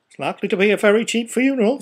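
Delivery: a flip, mocking businessman; sneering businessman. A narrator's reading. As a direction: rattle it off like a smug merchant. Businessman voiced in story.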